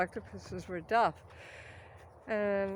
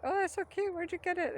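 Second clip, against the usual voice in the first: gushing women; 8 semitones higher than usual. Retold or imitated. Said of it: "they're going".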